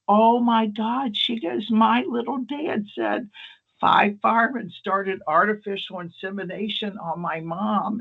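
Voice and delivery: high, slowed disbelieving gush; Brenda cracking up. Retold or imitated. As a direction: mimic a friend stunned and giggling. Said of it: "She was like".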